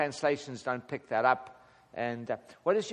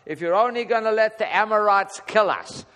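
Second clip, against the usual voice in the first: whining; 4 semitones higher, 5 dB louder than usual. Retold or imitated. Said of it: "he still whined".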